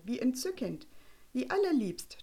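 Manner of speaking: a hint of a gushing matron; tönende Damenstimme. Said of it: "tönte die lauteste der Stimmen". (leicht gespielte, schwärmende Damenstimme)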